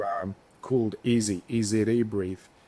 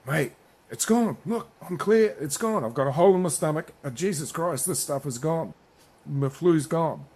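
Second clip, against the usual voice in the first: much higher, amazed and gushing about being cured; excited raving; 6 semitones higher than usual. Retold or imitated. Cured show jumper telling the seller his flu is gone, raving excitedly. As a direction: rave like you've just been cured.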